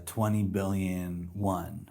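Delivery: ordinary talk, nothing marked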